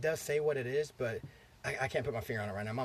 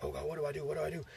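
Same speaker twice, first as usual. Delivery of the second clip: understated retold panic, slightly higher; mock panic; 4 semitones higher, faster than usual. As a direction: lightly act out a brother starting to freak out. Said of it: "the son starts freaking out".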